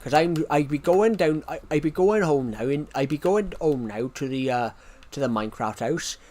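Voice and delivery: broad rustic regional British accent; thick regional accent. Shown as a demonstration. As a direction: stream in an exaggerated local accent. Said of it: "should I just stream like that now".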